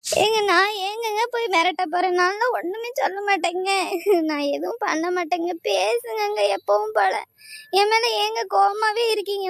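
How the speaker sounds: weepy, slowed pleading that breaks now and then; tearful pleading. Acted. Wife pleading with husband to talk to her, tearfully. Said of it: "ஏதோ நல்லவ மாதிரி கிடந்து ஒப்பாரி வச்சுட்டு இருக்கா".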